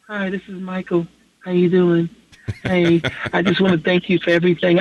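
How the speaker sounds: gently imagine his soft greeting; soft impression of a singer. Pretend. Imagined a singer calling his fan, softly voiced. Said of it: "He'd be like".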